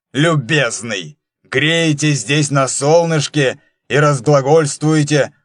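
angry. Acted. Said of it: "злобно произнёс".

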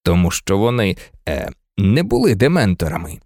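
low-pitched, hesitant reply with a smile; smiling explanation. A narrator's reading. Lupin breaking the news to Harry, smiling. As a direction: keep it low, gently amused. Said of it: "усміхнувся Люпен".

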